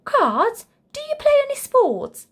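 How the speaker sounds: rising hope, pushing for sports; high excited kid voice; hopeful Charlie. Acted. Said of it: "asked Charlie hopefully".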